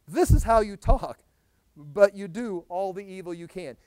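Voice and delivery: loud, emphatic voice of God; God rebuking. Retold or imitated. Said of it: "And God says".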